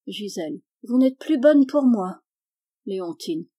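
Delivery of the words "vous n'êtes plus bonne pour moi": higher, louder, lightly voiced child; a hint of a wounded, complaining daughter; child's reproach. A narrator's reading. Daughter reproaches her mother, lightly voiced complaint.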